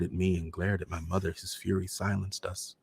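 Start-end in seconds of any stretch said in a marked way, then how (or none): none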